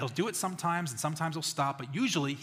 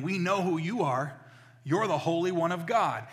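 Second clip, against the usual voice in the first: demons calling out; 4 semitones higher, 6 dB louder than usual. Acted. Demons confronting Jesus, calling out loudly.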